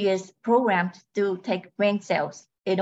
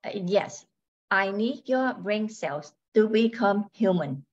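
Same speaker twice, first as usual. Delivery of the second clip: robot voice. Acted. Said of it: "She speaks in a robotic voice".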